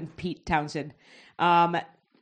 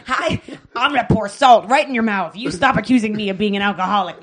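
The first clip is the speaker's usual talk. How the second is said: puppet voice; 8 dB louder than usual. Acted. Hand puppet answers back.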